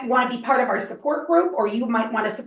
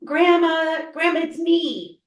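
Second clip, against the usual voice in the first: put-on higher pleading young caller; grandson voice; 6 semitones higher, slower than usual. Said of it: "a voice that sounds like your grandson".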